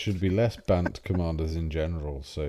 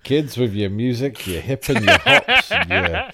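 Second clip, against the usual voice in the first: put-on very old man; 2 semitones higher than usual. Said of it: "you did sound like a very old man".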